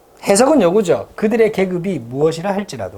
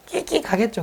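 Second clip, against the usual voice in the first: squeak imitation; 6 semitones higher, 6 dB quieter than usual. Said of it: "흉내 내기가 어렵네요".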